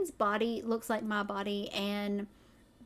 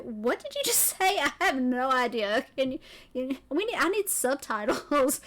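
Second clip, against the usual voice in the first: loud, incredulous retelling with a laugh; exaggerated exasperated disbelief, half laughing; baffled mock outburst; 3 semitones higher, 4 dB louder than usual. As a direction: act out total bafflement, voice raised. Retold baffled reaction to heavy accent.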